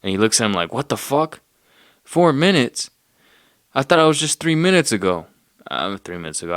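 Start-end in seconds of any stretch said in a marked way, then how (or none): 0.7-5.3 outraged customer hearing the price, voice jumping up; shocked outburst. Retold or imitated. Guy shocked at coffee price.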